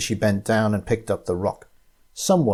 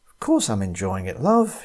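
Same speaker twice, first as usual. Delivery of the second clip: affectionate. Acted. Tina to her partner on the hike, affectionate. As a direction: reassure him lovingly.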